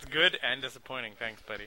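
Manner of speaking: ordinary delivery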